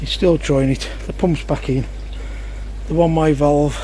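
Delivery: breathing heavily while talking; puffing between words. Real, not acted. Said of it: "Sorry about the breathing".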